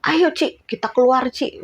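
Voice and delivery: high, pushy let's-go; urgent friend. Retold or imitated. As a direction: pull her out the door. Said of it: "teman saya udah bilang". (ajakan mendesak)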